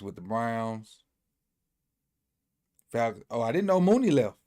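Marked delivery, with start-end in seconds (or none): 3.3-4.4 a higher, louder sudden "oh" of real surprise; surprised. Real, not acted. Reading a signing list, surprised that Mooney left. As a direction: caught off guard by the news, let it jump up.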